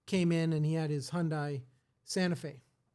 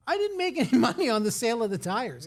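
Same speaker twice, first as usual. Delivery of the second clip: insistent retold reply; 4 semitones higher, 4 dB louder than usual. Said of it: "I said".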